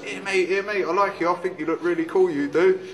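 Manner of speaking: lightly voiced tiny chatterer; tiny little voice. Peanuts flatter the drinker at the bar, lightly done tiny voice. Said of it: "a tiny little voice".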